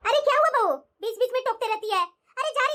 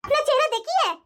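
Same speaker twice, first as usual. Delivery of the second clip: sarcastic taunt. Acted. Mother-in-law mocks bahu's wish.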